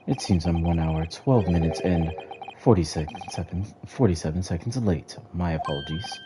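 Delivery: a lightly deepened stern judge; deep judge voice. Acted. Streamer reading the Lord Chief Justice's greeting, lightly deepened voice. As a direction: drop the voice a bit for the old judge. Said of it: "make his voice deep".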